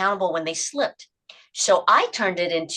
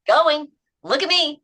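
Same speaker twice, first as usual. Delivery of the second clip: higher, slow, proud cheer; excited self-praise; 9 semitones higher, 6 dB louder, slower than usual. Shown as a demonstration. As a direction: cheer yourself on, slowly. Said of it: "reward yourself by saying it out loud".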